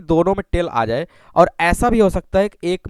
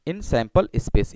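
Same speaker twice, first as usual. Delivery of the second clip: very slow, each word stretched out; slow dictation; 8 semitones lower, 5 dB quieter, much slower than usual. Shown as a demonstration. Teacher repeating for students to write, very slow. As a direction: spell it out slowly for the class to copy. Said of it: "धीरे धीरे मैं पढ़ रहा हूँ".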